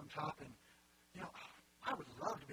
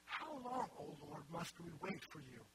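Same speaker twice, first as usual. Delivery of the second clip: crying out; slower than usual. Acted. Preacher voicing Habakkuk to the Lord, crying out. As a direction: cry out the opening, then ease back. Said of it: "they're all crying out".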